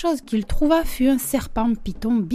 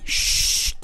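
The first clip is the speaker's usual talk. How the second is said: long, forceful shush; sharp collective "chut"; loud hushing "shh"; 3 dB quieter than usual. A narrator's reading. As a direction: hush them with a drawn-out hiss. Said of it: "à haute et terrible voix".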